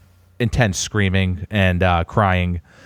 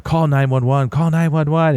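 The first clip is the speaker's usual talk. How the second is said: raised-pitch retelling of frantic yelling; mock panicked scream; 6 semitones higher than usual. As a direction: imitate a panicking wife without full volume. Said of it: "my wife's screaming".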